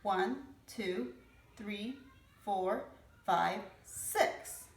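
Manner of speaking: put-on slow counting aloud for kids; teaching to count. Shown as a demonstration. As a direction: count each number slowly with children. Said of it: "Can you count with me?".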